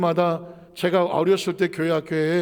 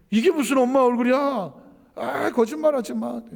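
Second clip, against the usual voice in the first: put-on raised, louder child's protest; indignant daughter; 6 semitones higher, 3 dB louder than usual. 딸이 엄마에게 거짓말하지 말라며 항의하듯 높고 크게. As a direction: push back like a child who won't believe it. Daughter disbelieves her mother.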